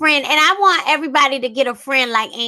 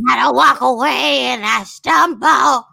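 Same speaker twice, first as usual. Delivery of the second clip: imitating a singer. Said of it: "singing voice".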